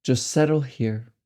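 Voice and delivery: unhurried meditation guidance with long silences between phrases; measured, spacious delivery, letting each phrase settle; guided meditation. Acted. Meditation guide helping listeners accept the mind as it is, unhurried guidance.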